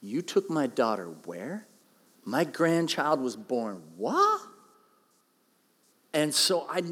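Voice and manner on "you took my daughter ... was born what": outraged father. Pretend. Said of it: "what about Mary's dad".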